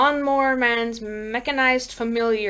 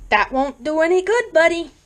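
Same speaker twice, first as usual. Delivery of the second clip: higher-pitched, kindly chiding; 6 semitones higher than usual. Acted. Lawnmower man talking to his fleeing victim, kindly. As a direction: tell him gently it's useless. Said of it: "the lawnmower man said kindly".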